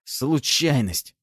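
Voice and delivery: slow, reluctant forced word; squeezed out. A narrator's reading. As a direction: drag the word out unwillingly. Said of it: "выдавил из себя тот".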